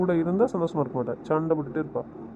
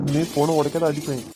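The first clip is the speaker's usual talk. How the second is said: louder, firm warning; 4 dB louder than usual. Real, not acted. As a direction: warn her off sharply. Warns wife not to break phone. (உரத்த எச்சரிக்கை)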